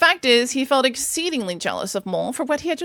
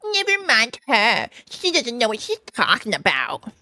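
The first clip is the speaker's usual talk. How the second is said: raised, put-on officer voice; dismissive sergeant; 3 semitones higher, slower than usual. A narrator's reading. Sergeant reassuring his men, dismissive. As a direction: wave her away verbally. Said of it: "the surgeon said to them".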